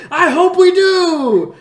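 high, loud, slow, laughing through it; taunting the preacher while laughing. Retold or imitated. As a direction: cackle the words back. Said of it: "And I was like".

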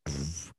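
low, soft puff of air; dismissive puff. Retold or imitated. Fan reacting to other players' interviews, dismissive puff. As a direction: blow out a quiet, unimpressed pfft. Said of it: "you're like".

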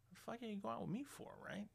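half-whispered, teasing question. Retold or imitated. Asking the girl why she dated him, whispered. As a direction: toss it off under the breath. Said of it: "I'm like".

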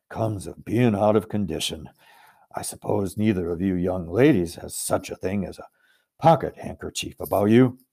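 lumber through it kindly; good-natured giant. Acted. Giant asks the young ladies for a handkerchief, lightly rustic.

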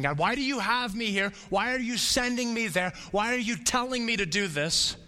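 high, plaintive cry to God; pleading complaint. Retold or imitated. Believer in pain to God, a high pleading complaint. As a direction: whine up at God about the pain.

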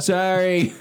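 giggling through sorry; laughing apology. Retold or imitated. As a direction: laugh it out, embarrassed. Retells embarrassed apology.

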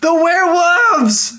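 high, slow spooky wail; mock dramatic cry. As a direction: wail it like a horror film.

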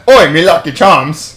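hammed-up stage-Irish Oi, me Lucky Charms; a jokey leprechaun grab; mock Irish. Mocking a friend's version, in mock Irish. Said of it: "it's better than".

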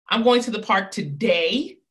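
going pushed, rising tune; stress on going. Shown as a demonstration. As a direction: lean on going, lift the end. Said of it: "I'm gonna emphasize it three different times".

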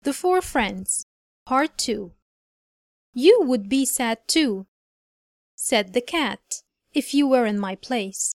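slow, clear storybook reading; story reading. A narrator's reading. Teacher reading a fable aloud to her class. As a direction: read the story slowly for learners.

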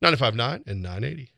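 brisk station and sponsor read; fast radio read. Acted. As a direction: announce it like a radio tag.

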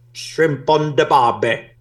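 slow Aussie drawl; Australian accent. Retold or imitated. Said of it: "A ver tu acento australiano".

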